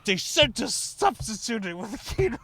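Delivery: high mock whine of the kid; imitating the kid. Teller mimics the kid explaining to the manager, high whine. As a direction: whine like a frustrated teen clerk. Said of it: "He was like".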